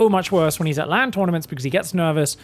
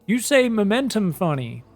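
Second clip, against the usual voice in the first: higher, questioning mimicry of a puzzled viewer; higher, querying quote; imitated viewer; 5 semitones higher than usual. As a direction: quote a baffled commenter, pitched up. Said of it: "someone said".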